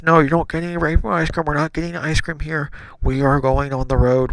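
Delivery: mock dad scolding; firm dad. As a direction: lay down the law as a parent. Retold father firmly refusing child.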